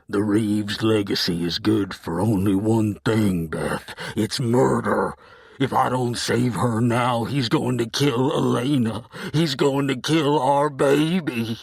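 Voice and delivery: rising desperate outburst; desperate anger. Acted.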